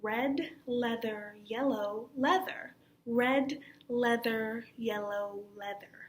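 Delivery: red leather, yellow leather in slow, exaggerated diction; over-articulated. Shown as a demonstration. Teacher drilling a tongue twister, over-articulated. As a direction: shape each sound of "Red leather" slowly and fully. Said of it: "moving in such an exaggerated form".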